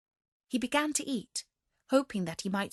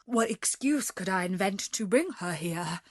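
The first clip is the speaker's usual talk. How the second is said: distressed cry. Acted. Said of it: "cried the merchant".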